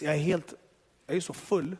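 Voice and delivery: ordinary talk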